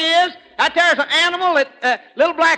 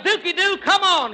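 mock call; 4 semitones higher than usual. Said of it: "he yelled".

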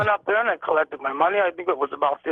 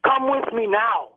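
slow, higher, coaxing yell; mock yell; 6 semitones higher, slower than usual. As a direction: lure him along, drawing it out. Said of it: "he's going to me in a loud voice".

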